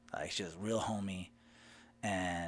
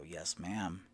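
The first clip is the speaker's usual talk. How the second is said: soft whispered reply; whispered yes ma'am; 5 semitones lower, 7 dB quieter than usual. Retold or imitated. Answering the stranger's question, whispering. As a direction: answer in a hush.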